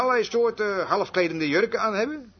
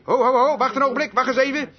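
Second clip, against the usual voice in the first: raised voice stepping into a squabble; halting call; 4 semitones higher than usual. Retold or imitated. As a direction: call out to stop them, pitched high. Shepherd halting quarrelling flock. (sussend tussenbeide komen)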